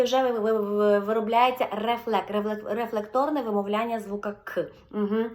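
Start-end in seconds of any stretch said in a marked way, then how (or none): none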